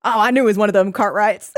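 put-on Southern old-timer landing the punchline; Southern old man. Pupil's comeback in old man's joke, Southern accent. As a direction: deliver it as a folksy Southern punchline. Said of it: "they're also very Southern".

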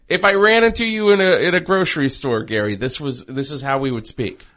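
high, polished fake voice; bright put-on radio tone; plastic voice. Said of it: "Stop the fake voice".

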